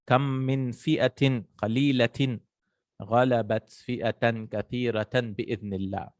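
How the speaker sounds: measured Quranic recitation; verse recitation. Acted. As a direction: reverent verse reading.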